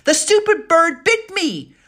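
high, loud outraged complaint; indignant outburst. Acted. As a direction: cry out, finger still stinging. Bitten girl complains loudly.

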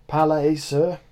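high, loud call across the cellar; cried out. A narrator's reading. Monsorbier calls for a parley across the cellar, loud and high. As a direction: shout the offer of truce. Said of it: "cried Monsorbier".

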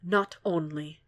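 soft, gravelly confession; quiet with a rough gravel edge. A narrator's reading. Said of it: "the gravel in his voice surprises him".

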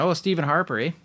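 mock Canadian oh, Stephen Harper, eh; Canadian twang on Harper, eh; a touch of Canadian accent. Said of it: "say the word Harper with a Canadian accent".

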